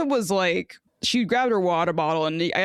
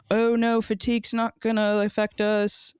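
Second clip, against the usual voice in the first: lightly put-on imitation of the captain's accent, pitched higher; Jess Fishlock's accent; 4 semitones higher than usual. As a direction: mimic the player's accent, raised and dismissive. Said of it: "This is my accent of Jess Fishlock".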